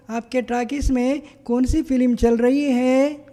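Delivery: lightly voiced, sweetly asking the cinema; golden voice. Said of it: "अपने सुनहरी आवाज़ में इस तरह".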